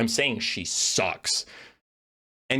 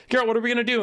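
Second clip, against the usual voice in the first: put-on panicked kid voice; 10 semitones higher, much faster than usual. Quoting Ciri, pitched up.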